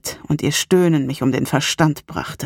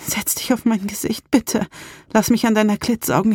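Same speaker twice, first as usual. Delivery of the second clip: pleading; 6 semitones higher than usual. Acted. Salem begs her lover.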